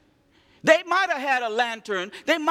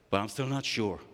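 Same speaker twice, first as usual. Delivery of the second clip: doubtful Gideon; 13 semitones lower, 7 dB quieter than usual. Acted. Doubtful Gideon asking again.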